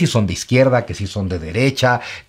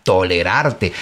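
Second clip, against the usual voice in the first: disdainful word; 4 semitones lower, much slower than usual. Shown as a demonstration. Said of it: "Haz que hasta la palabra".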